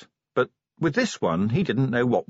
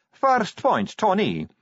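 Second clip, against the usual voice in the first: higher, firm interruption; Sally, firm; 10 semitones higher, slower than usual. A narrator's reading. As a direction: stop her firmly. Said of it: "raised a quietening hand".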